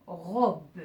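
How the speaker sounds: robe drawn out, final "be" released apart; split into syllables. Shown as a demonstration. Teacher separating words into syllables, syllable by syllable. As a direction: sound out robe as "ro-be". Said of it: "je vais séparer ces mots en syllabes".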